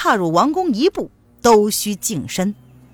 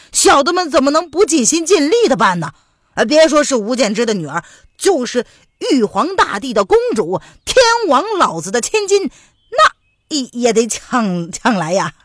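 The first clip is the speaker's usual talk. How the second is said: eager boast; 3 semitones higher, 4 dB louder than usual. Acted. 胡正勇表忠心.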